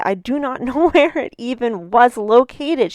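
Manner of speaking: laughing through "I do not know"; laughing disbelief. Real, not acted. Telling listeners about the road, laughing in disbelief. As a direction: chuckle at the absurdity.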